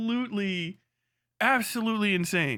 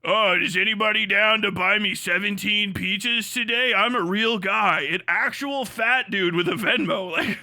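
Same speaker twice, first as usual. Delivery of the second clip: louder, pleading fat guy voice; lightly voiced needy poster; mock fetish post; 4 dB louder than usual. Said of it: "And then just like".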